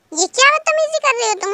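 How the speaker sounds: high, loud angry rebuke; angry teacher. Acted. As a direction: snap at the rude student. (ऊँची, गुस्से वाली फटकार)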